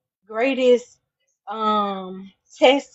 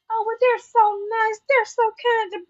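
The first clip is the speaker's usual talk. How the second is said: mocking quote; 6 semitones higher than usual. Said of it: "keep on coming up".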